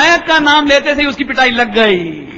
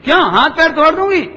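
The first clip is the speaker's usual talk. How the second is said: a mother's loud mock scold, higher; 5 semitones higher, 4 dB louder than usual. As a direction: threaten the child, half in play. Mother scolding child loudly. (डांटती माँ की नकली तेज़ डांट)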